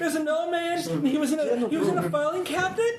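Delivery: panicked. Acted. Panicked character telling the shooting.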